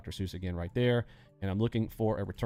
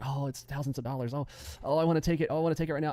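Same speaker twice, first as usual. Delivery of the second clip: higher, building to an eager whine on I wanna take it; mock greedy trader; 5 semitones higher, faster than usual. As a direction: play the itchy trader who wants to cash out now. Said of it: "You're like".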